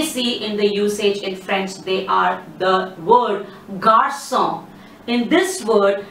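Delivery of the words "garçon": garçon with an S sound in the middle. Shown as a demonstration. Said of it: "C needs to be sounded".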